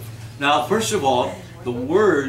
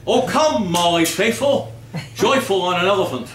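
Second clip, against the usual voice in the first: garbled title; 4 semitones higher than usual. Retold or imitated. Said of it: "Christmas carol titles".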